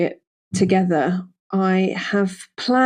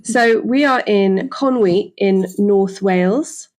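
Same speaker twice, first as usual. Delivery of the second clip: hint of Welsh accent; 5 dB louder, slower than usual. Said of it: "it's when I say Wales that it, I want to do it".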